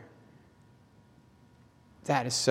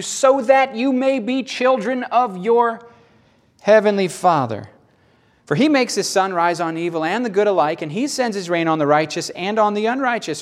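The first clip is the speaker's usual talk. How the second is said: raised, driving recitation of scripture; emphatic scripture reading; 6 semitones higher, 4 dB louder than usual. Acted. Preacher quotes Jesus to the congregation, emphatic scripture reading. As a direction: read it out high and forceful.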